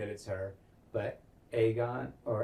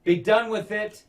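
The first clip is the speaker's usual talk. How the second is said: raised, slow, high-pitched order; acted royal shout; king's command; 7 semitones higher, 7 dB louder than usual. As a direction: order it loudly and slowly. Acts the king ending the argument.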